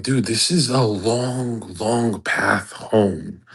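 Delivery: slow, drawn-out whining; mock whiny complaint. Mocking a follower who moans about the slow path home. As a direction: drag it out like a tired complainer. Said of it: "people are like".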